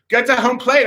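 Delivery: high mock yell; screaming coach. Coach repeating his order to the kid, mock scream. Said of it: "was, like, screaming at me".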